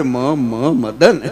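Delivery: "મ, મ" repeated before "મદન"; comic stutter; stammering. Retold or imitated. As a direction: stutter the name. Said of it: "પાંચ વાર મ આવે".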